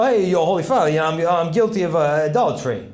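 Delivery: imitated Italian-Californian confessing; Italian-California accent. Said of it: "a bit of an Italian accent mixed with a California accent".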